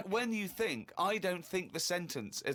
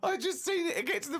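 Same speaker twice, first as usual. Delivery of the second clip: laughing; 7 semitones higher than usual. Real, not acted. Laughing at diary.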